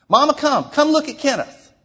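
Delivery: put-on a young girl calling her mother to come look; girl calling mama.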